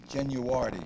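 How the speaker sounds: Genuardi with all four syllables sounded; full pronunciation. Shown as a demonstration. Host repeating guest's surname as corrected, Genuardi in full. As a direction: say Genuardi as Gen-you-ar-dee. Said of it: "you say".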